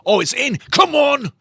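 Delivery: loud, high burst of hope; real excitement at a near goal; excited shout. Real, not acted. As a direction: yell at the screen as the ball nearly goes in. Goal chance, watching live match.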